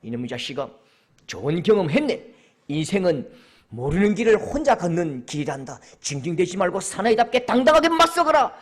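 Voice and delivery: mock-stern lecture, starting low; low voice building to a firm command; stern father. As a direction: lecture the boy like a pompous father. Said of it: "근데 아빠가".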